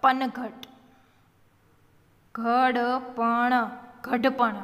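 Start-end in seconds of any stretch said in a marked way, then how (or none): 2.4-3.5 every letter voiced separately; sounded out. Shown as a demonstration. Teacher spelling for beginning readers, sounded out. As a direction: draw ઘડપણ out as gha-da-pa-na.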